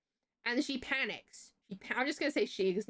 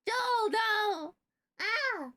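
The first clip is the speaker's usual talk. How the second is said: high, sharp cry of protest; alarmed shout; 12 semitones higher, 3 dB louder, much slower than usual. Real, not acted. Streamer calls out to stop Joel, alarmed shout. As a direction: cry out to stop someone, pitch jumping up.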